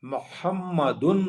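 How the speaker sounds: محمدن drawn out slowly, ending in a clear nunation "un"; spell-out pronunciation of محمدن; tanween ending. Shown as a demonstration. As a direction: slowly sound out محمدن with the final "dun". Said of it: "لگی ہوئی ہوگی تنوین".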